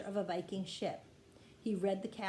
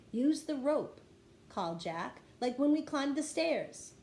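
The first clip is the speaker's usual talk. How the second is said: higher, louder urgent call; 5 semitones higher, 4 dB louder than usual. A narrator's reading. Jack on the ship calls to Annie in the water, urgent and loud. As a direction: shout the instruction across.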